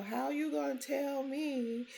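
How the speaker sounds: mock-indignant granddaughter; upset child. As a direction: protest like a wronged little girl. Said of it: "So she wanna know".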